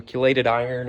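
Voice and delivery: "chelated" said with a hard k, KEE-lay-tid; hard-k pronunciation. Shown as a demonstration. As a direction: start "chelated" with a k sound, as in key. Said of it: "Some people pronounce it chelated".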